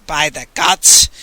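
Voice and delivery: boomed. Acted. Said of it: "the Pope boomed".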